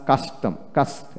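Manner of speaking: "কাস্ট" with a dental s closing the syllable. Shown as a demonstration. Teacher pointing out syllable-final S, "কাস্ট" with dental s. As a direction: say "কাস্টম" with s, not sh, before the t. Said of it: "এই যে দন্তাস্য এস".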